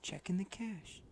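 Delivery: tinny, metallic sound. Real, not acted. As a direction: voice like through a tin can. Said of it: "You sound really m-, metallic".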